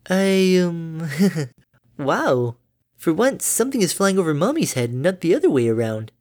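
high, bright-natured mother pony; doting mom, high and chirpy; cheery mother voice. Acted. Derpy voiced.

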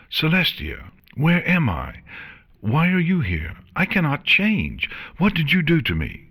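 high-pitched panicked yell, heart racing; frantic, high acted yell. A narrator's reading. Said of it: "she yelled".

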